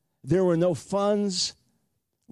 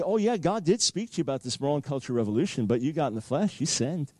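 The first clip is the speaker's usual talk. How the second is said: low accusing inner voice; 4 semitones lower than usual. Retold or imitated. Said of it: "I heard it clearly".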